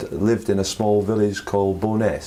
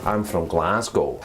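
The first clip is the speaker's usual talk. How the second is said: slower Glaswegian accent demo; 3 semitones lower than usual. Shown as a demonstration. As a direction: try a slightly harsher Glasgow accent. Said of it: "execute the Glaswegian accent".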